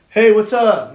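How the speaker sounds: high, loud greeting in imitation; mock loud greeting. Needling kid walks up to his table, mock-cheery. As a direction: call it out like the annoying kid.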